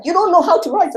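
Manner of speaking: high, loud scornful academic voice; imitating snooty academics, pitched high; dismissive academics. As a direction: mimic a sniffy professor brushing you off. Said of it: "they were like".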